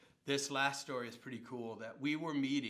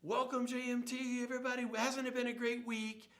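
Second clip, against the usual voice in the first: excited welcome; 10 semitones higher than usual. Retold or imitated. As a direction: call it out big to the crowd. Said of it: "the spokesman says".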